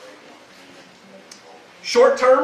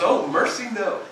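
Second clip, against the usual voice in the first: laughing quote; 5 semitones higher than usual. Retold or imitated. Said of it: "That's what he says, how he talks".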